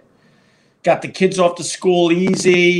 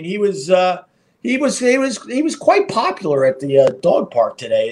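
normal talking voice

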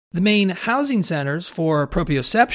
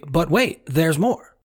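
pitchman's "but wait, there's more"; infomercial voice; slower than usual. Shown as a demonstration. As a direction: sell it like a TV infomercial. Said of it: "in my best infomercial voice".

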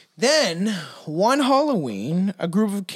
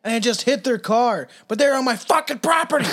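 rising, louder indignant rant; angry rant; 5 semitones higher, 3 dB louder than usual. Retold or imitated. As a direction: rant like a crazed landowner. Voicing the angry landowner.

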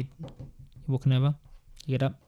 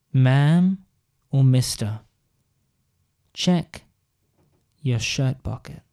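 magic words; slower than usual. Acted. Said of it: "says these magic words".

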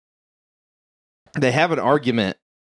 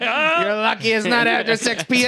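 put-on much higher, taunting Brooklyn accent; Brooklyn snake; 12 semitones higher than usual. Snake gloating over a lucky victim, hammed-up Brooklyn accent. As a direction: threaten like a cartoon Brooklyn wise guy. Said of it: "our snakes are from Brooklyn".

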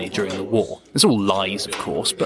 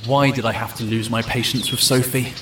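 inner monologue. Acted. Fitz reproaching himself alone, thoughtful inner monologue.

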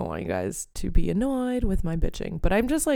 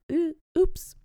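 startled oops; 11 semitones higher than usual. Real, not acted. Reacts after her rant.

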